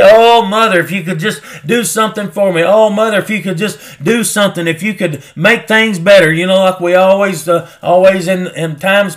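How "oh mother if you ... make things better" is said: mock childish pleading. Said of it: "He's not going through childish things".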